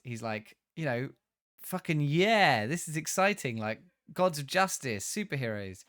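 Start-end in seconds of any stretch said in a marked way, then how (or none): 1.6-5.8 voicing a thrilled grandson, louder and higher; excited kid. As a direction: burst out like a kid who just saw superheroes. Kid excited leaving the temple.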